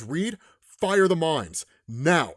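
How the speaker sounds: slow, spaced-out command; deliberate retold command; emphatic order. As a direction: give the order slowly, word by word. Acting Iron Man's desperate order.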